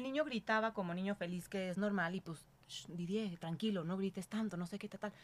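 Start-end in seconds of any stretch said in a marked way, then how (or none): 2.7-5.1 1 retold hushing. Hushing her son on the train.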